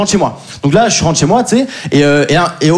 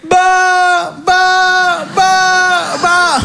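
high babbling; 9 semitones higher, much slower than usual. Pretend. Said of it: "mocking speech exercise sounds".

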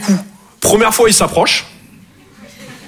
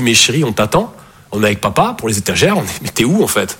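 put-on girlfriend on the phone; 8 semitones lower than usual. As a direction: call him home gently. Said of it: "elle me dit".

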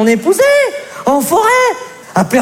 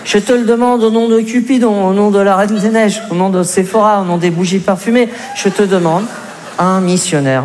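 mock solemn plea; 5 semitones lower than usual.

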